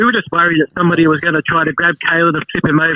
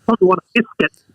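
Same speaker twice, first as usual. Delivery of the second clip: whispered. Real, not acted. Caller gushing over being called.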